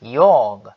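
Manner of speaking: "jag" said as a clear yah; Swedish jag. Shown as a demonstration. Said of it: "Vocês já sabem que".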